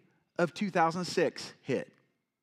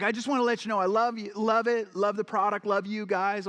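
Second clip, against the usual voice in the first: put-on Southern accent; 5 semitones higher than usual. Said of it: "Southern accent".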